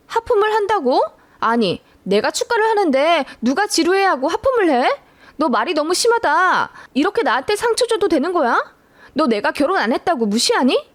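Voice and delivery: high, indignant angry voice; sister-in-law snapping at the bride, hurt and furious; furious outburst. Acted. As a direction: lash out, deeply offended. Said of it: "정말 저를 한 대 칠 듯이 화를 내더라고요".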